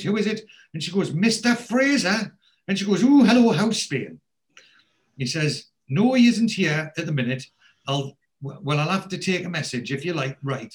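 a lightly voiced fussy Norma on the phone.

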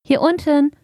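high piping call; small, high creature voice; squeaky little voice. A narrator's reading. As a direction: squeak up like a tiny animal. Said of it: "piepste es".

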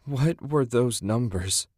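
high, slow anguished moan. A narrator's reading. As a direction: draw it out in weary distress. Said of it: "she moaned".

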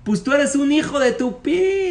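a high, slow, insulting rant from the wife; rude outburst. A narrator's reading. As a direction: spit the insults at her husband. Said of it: "le empieza a decir todas las groserías".

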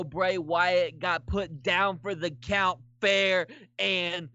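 cocky heel wrestler taunting the crowd; trash-talk the booing fans like a heel; wrestling promo. Pretend. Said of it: "All right, cut your promo".

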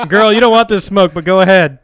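sassy. Pretend. Sassy challenge to friend.

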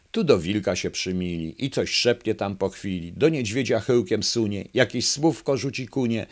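rhythmic verse read aloud to the audience; poem reading. Acted. Speaker reading a children's fable to the audience, rhythmic recitation. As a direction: recite the rhyming fable with a lilt.

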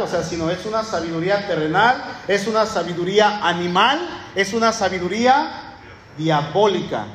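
"terrenal", "animal" y "diabólica" remarcadas con subida al final; énfasis en cada palabra. Real, not acted. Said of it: "Le estoy poniendo mi énfasis". (predicador recalcando "terrenal", "animal", "diabólica")

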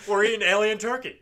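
high voice through laughter; laughing. Real, not acted. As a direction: giggle it out. Laughing joke about Mars family.

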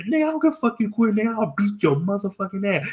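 high, fast mock outrage; indignant threat. New Yorker threatening an aggressive rider, indignant. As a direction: fire back with a high-pitched threat.

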